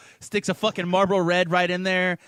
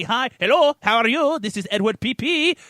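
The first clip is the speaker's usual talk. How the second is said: higher, louder, chirpy little greeting; cutesy penis voice; 5 semitones higher, 4 dB louder than usual. Pretend. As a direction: play a tiny creature saying hello sweetly. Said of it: "creep up and say".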